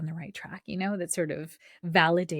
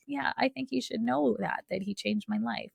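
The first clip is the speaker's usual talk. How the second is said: lightly voiced young nurse, higher; a hint of the touched nurse; moved nurse; 5 semitones higher than usual. Nurse retold, emotional.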